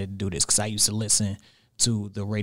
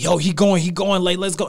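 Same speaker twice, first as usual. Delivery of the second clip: higher, louder radio play call; hyped announcer call; 7 semitones higher, 4 dB louder than usual. Retold or imitated. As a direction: sell a short run like a movie trailer. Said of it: "he makes a three-yard run sound like a, a, like a movie trailer".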